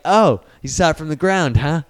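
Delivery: knowing, pointed question; mock suspicion. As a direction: imitate a dad who is catching on. Dad's sceptical echo, acted.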